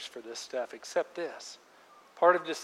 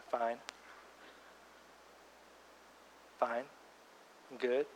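brushing it off; 3 semitones lower, 13 dB quieter than usual. Shown as a demonstration. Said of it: "It's probably more like this".

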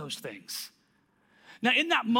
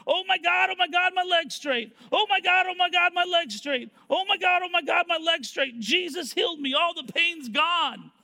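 high, loud, repetitive mock amazement; hammed-up astonished exclaiming; imitating ecstatic raving; 7 semitones higher, 4 dB louder than usual. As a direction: gush it over and over like an overjoyed man. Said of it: "All he's doing is going around going".

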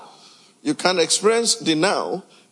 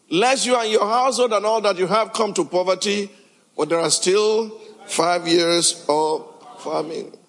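Joseph's voice; 4 semitones higher than usual. Acted. Preacher voices Joseph's message.

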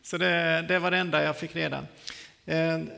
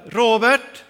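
loud, higher call with rising end; imitated summons, voice raised; 4 semitones higher, 11 dB louder than usual. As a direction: call a name from another room. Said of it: "En röst som ropar".

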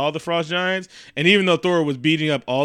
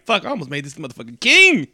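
mock-angry realization, rising late in the line; really mad; 4 dB louder than usual. Odin realizing who he nearly crowned, mock mad. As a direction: let the appalled realization build toward KING. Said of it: "he got really mad".

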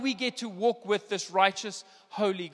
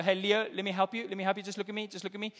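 soft, soothing parent voice, trailing quieter; imitating a dad calming his boy; coaxing father; 3 dB quieter, faster than usual. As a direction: gently get a crying child's attention. Father soothing his crying son.

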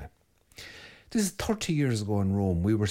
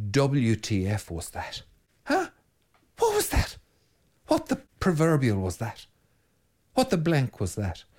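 bewildered outrage; 3 semitones higher than usual. Retold or imitated. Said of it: "to paraphrase Orwell, say".

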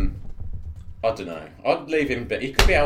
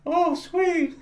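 high, drawn-out ghostly delight; spooky falsetto with dated slang; eighties ghost. Pretend. Ghost from the eighties reacting to news, high wail. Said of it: "Is that what they said in the eighties?".

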